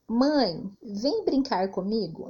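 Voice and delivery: small pause after "Mãe" before "vem brincar comigo"; pause at the comma. Shown as a demonstration. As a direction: call mom, stop briefly, then ask. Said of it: "podemos usar a seguinte frase".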